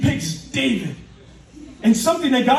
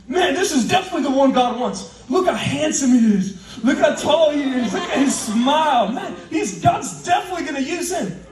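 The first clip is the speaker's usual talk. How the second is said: excited admiration; 3 semitones higher than usual. Acted. Acting Samuel admiring first son.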